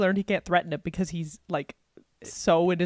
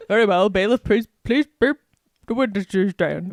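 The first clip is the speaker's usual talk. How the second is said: lightly voiced old judge; 5 dB louder than usual. Voicing the judge.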